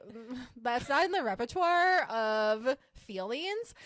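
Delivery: slow, prim and matter-of-fact; mock-prim dismissal. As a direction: say it like a fussy clerk. Retelling herself, mock-prim.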